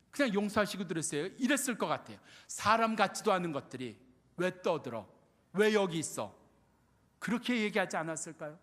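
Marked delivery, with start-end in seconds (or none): 2.5-6.3 mock scolding crowd. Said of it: "꾸짖었다고요".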